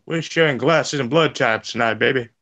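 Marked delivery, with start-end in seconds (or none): none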